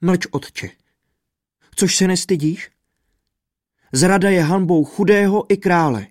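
high, loud rebuke of a father; rebuking. A narrator's reading. The princess rebukes her father for pleading, high and loud with anger. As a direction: snap at him with righteous anger. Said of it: "sama ho okřikla".

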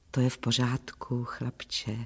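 hushed, low reassurance; whispering. A narrator's reading. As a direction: murmur low and very softly to the dog. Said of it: "zašeptala jsem".

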